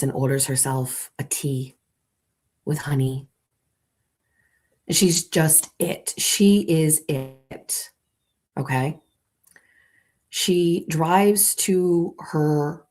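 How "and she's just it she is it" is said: she's just IT, drawn out slow; slow, reverent emphasis; slow emphatic awe. Pretend. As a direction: lean on every word as if revealing a truth. Awed summing up of Jen.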